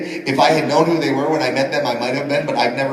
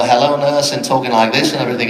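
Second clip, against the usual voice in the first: lightly voiced Liverpudlian musician; a hint of a Liverpool rock star in a cartoon catchphrase; a singer. Trying the director's suggestion at the audition, light impression of a singer. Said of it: "I like John. Why don't you mess with John?".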